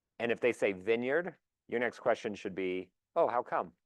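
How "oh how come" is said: genuinely intrigued, curious, interested tone. Modeling a follow-up question about where someone would move, in a curious tone. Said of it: "sound curious like that".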